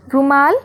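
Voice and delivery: रुमाल with a quick short रु. Shown as a demonstration. Teacher showing the short रु in रुमाल. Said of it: "जल्दी बोला ना".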